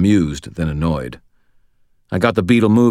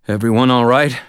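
calling out; 6 semitones higher, 4 dB louder than usual. Acted. Calling to passengers after crash.

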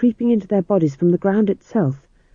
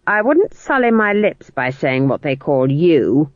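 mild shout. Acted. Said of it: "shouted Granny".

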